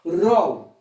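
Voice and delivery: "Rol" said as a separate syllable; stressed syllable alone. Shown as a demonstration. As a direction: isolate "Rol" as one firm beat. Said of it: "Última sílaba tônica".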